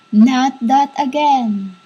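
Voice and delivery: slow, measured imitation of a spirit; retold spirit voice. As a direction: draw the words out like flowing water. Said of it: "And the voice was".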